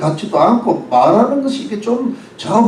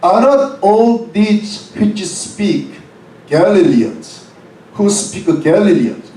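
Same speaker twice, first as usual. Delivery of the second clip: slow scripture reading; much slower than usual. Acted. Reading scripture verse in English.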